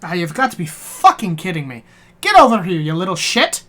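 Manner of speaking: mildly exasperated mock scolding; playful exasperation with sharp bursts; swearing dog trainer. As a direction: cuss out a misbehaving dog. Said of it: "She swears a lot".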